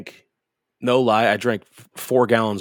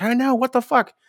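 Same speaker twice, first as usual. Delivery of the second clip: high-pitched incredulous comeback; exasperated squeal of agreement, acted out; retold exasperation; 13 semitones higher, 3 dB louder than usual. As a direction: throw it back in mock disbelief. Retold disgusted reply to laughing friend.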